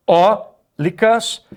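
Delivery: "Eólicas" said very slowly, weight on "ó"; teacher stretching a word to show stress; slow stress demo. Shown as a demonstration. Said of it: "Eólicas é a antepenúltima tônica".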